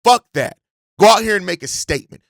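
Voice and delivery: real anger boiling over at the rivals; fired-up angry rallying cry; getting pissed. Real, not acted. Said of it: "while I'm getting pissed, as you can tell".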